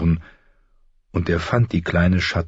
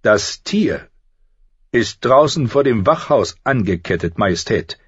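higher-voiced, halting reply to royalty; hesitant; 5 semitones higher, 4 dB louder than usual. A narrator's reading. Knight answering the queen, hesitant. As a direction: answer reluctantly, pausing after the first words. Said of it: "antwortete Sir Barristan Selmy zögerlich".

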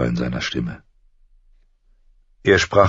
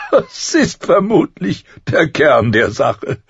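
amused; 12 semitones higher, 5 dB louder than usual. A narrator's reading. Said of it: "schnaubte ein Lachen hervor".

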